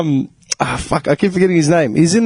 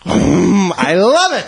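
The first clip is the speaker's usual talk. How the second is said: Jon Lovitz; much slower than usual. Pretend. Comedian as car voice enjoying the button push, hammed-up impression. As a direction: savour it like a comic actor. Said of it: "John Lovett's doing that voice".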